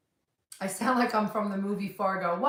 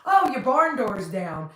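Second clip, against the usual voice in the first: slow, louder Southern imitation; imitated Southern boy; 6 dB louder, slower than usual. Retelling a Southern opener's funny line, playful Southern accent. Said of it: "And he's like".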